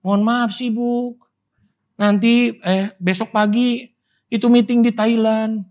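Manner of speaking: lightly voiced busy rich man, high and slow in spots; hammed-up excuse of a jet-setter; a hint of a self-important busy man making excuses; mock busy rich man. Mocking busy rich churchgoer.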